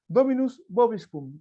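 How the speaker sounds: "Dominus Vobiscum" shouted high, loud and slow. Acted. The priest shouts at the gardener in church, loud slow shout. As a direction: bellow "Dominus Vobiscum" slowly. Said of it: "Fuerte, fuerte, así".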